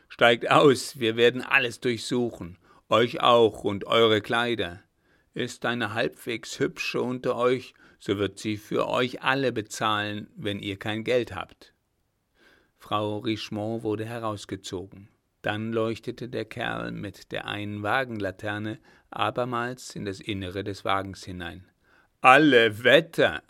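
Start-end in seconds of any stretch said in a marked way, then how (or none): 0.1-11.7 loud barking orders; rough robber's command. Acted. Robber orders the ladies out, loud commanding bark. 22.2-23.4 loud, startled cry of admiration; impressed exclamation. Acted. Robber sees the girl in the carriage, loud amazed cry. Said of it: "rief er".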